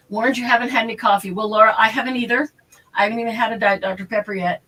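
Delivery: talking with food in mouth; words around a bite of ham; chewing while talking. Real, not acted. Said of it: "if I sound like I'm chewing, I probably am".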